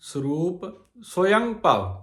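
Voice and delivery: ਸੋਯੰ said "soyaṅ", with a nasal end, then ਭਵ; slow ਸੋਯੰ ਭਵ with a nasal ਸੋਯੰ; pronunciation of ਸੋਯੰ ਭਵ. Shown as a demonstration. Teacher models ਸੋਯੰ ਭਵ for the congregation. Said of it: "ਇਹਦਾ ਉਚਾਰਨ ਇਸ ਤਰ੍ਹਾਂ ਹੀ ਕਰਨਾ ਆ".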